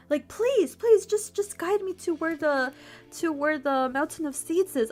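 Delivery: high plea that eases downward; pleading. Acted. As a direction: beg earnestly, starting high. God begs the ant.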